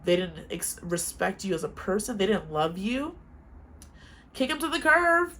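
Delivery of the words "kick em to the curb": emphatic. Real, not acted. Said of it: "repeated punchline".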